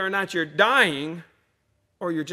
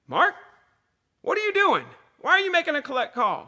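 mock-startled mom, much higher and louder; imitating mom's alarmed high pitch on the phone; surprised mom; 12 semitones higher, 6 dB louder than usual. Mom catching her son's collect call, high and startled.

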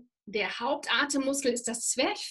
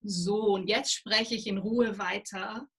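calm, unhurried; 2 semitones lower than usual. Shown as a demonstration. Voice coach shows a nervous audience how calm speech sounds, calm and steady. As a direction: show the room it's safe to breathe again. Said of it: "wenn ich dann aber wieder so mache und sag".

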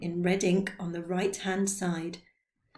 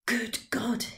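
mild exclamation; 3 semitones higher than usual. Acted. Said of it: "he cried".

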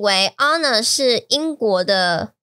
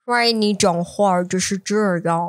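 put-on egg-in-mouth British accent. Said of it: "就像你的嘴巴有一颗蛋一样".

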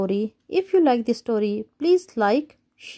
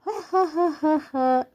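mocking laugh; 5 semitones higher than usual. Dinosaur mocks the bad roars.

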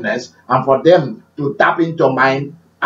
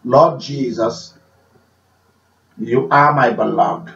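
loving prayer; 4 semitones lower than usual. Shown as a demonstration. Showing his prayer of love, low and tender. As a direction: speak it low and tender to the Lord. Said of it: "I will say something like this".

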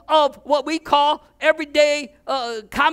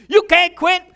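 loud, higher protest; angry boss, louder and higher; boss yelling; 7 semitones higher, 8 dB louder than usual. Retold or imitated. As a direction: yell it like a boss losing his best worker. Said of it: "He starts yelling at me".

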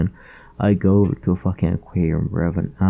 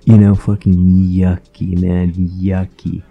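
disgusted; 8 dB louder, slower than usual. Retold or imitated. Spitting out sushi in disgust.

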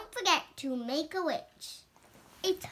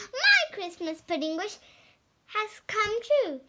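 higher, louder delighted cry; happy Peppa; 6 semitones higher, 5 dB louder than usual. Acted. Reading to brother, Peppa's delighted cry. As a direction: burst out with the wish come true. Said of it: "she says".

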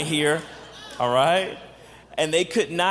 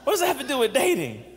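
mock congregation question. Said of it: "Now y'all saying".

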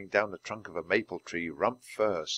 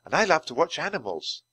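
forced cheer; 7 semitones higher than usual. A narrator's reading. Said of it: "trying to be cheerful".

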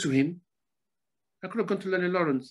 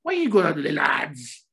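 put-on Scottish accent; 3 semitones lower than usual. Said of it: "He spoke in a Scottish accent".

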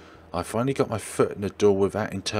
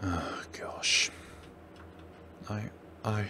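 breathless whisper; shocked whisper; 10 dB quieter, slower than usual. Real, not acted. Viewer reacting to the footage, shocked. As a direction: gasp it out.

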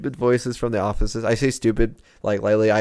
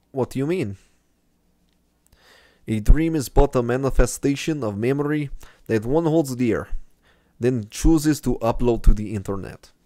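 put-on understated Russian accent; 2 semitones higher than usual. Gamer voicing the dream guide's lines in a mild Russian accent. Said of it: "my Russian accent".

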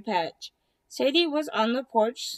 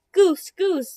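calling out; 6 semitones higher, 6 dB louder than usual. Acted. Turkey calling out to Goose.

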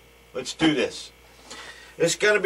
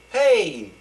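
a slightly raised, offhand hey; a quick neutral hello; light greeting; 4 semitones higher than usual. Shown as a demonstration. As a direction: toss off a casual hey. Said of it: "you can say it like this".

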